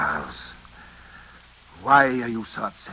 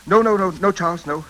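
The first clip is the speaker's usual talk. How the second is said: urgent interruption; 4 semitones higher, 3 dB louder than usual. Acted. Cutting the butler off.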